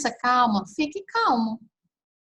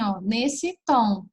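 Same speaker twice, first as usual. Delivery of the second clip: calm low tone; much slower than usual. Shown as a demonstration. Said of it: "Fale assim".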